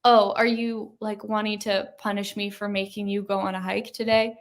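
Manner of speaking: easygoing, unruffled delivery; super chill. Retold or imitated. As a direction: ask it casually, without any push. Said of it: "I was super chill".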